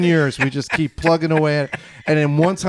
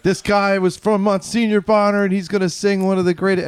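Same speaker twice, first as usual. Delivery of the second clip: mock announcer intro; 4 semitones higher than usual. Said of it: "you're like".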